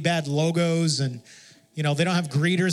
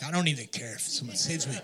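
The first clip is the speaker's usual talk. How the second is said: laughing aside; 4 semitones lower, 7 dB quieter than usual. Retold or imitated. Retelling bold thought at door.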